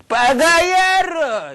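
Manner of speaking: huge drawn-out high yell; furious Japanese curse. Shown as a demonstration. Lecturer showing how to curse in Japanese, long enraged yell. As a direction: bellow the insult, stretching it out. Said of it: "이렇게 하는 거예요".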